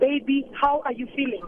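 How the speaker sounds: ordinary talk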